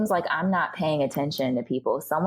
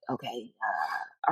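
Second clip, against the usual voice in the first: hesitant stalling; 6 semitones lower, 7 dB quieter, much slower than usual. Retold or imitated. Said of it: "And it's like".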